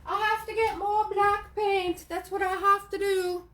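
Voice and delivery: put-on high croaky old hag voice. Repeats line in witch voice.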